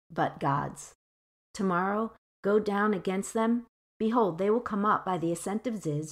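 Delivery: measured, solemn prophecy reading; steady verse reading to the listeners; scripture reading. Acted. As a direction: read the Lord's promise calmly. Reads the prophecy in verse fourteen.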